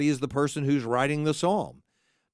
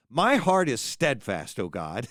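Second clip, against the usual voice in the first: a light, slow poke at the pious line; gently mocking the proud vow; mild mock declaration; 2 semitones lower than usual. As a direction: read it slowly with a faint teasing edge. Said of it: "I'm going to sort of make fun of these".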